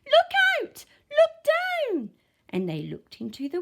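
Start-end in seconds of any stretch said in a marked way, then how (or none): 0.1-2.1 very high, loud yell; yelled warning. A narrator's reading. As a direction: warn them urgently. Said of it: "who yelled".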